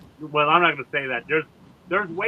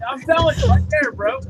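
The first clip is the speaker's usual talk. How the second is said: high, loud groaning zombie; 9 semitones higher, 6 dB louder than usual. Pretend. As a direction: moan it out like the undead. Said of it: "make your best zombie voice".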